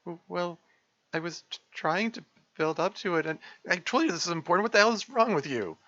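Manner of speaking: builds from upset to a high furious yell; angry outburst. Acted. Monica blowing up at Sayori, rising furious yell. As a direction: lose it at her friend.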